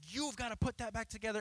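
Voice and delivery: firm parent. Retold or imitated. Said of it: "I was like".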